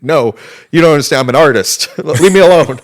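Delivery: loud, high-pitched hammed-up protest; high mock outcry of a wronged artist. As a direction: imitate someone indignant being dragged away, half laughing. Mimicking kid dragged out by security.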